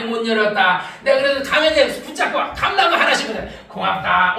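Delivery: low, coaxing talk to a tree; acted blessing. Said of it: "올해는 내가 축복하는 거야".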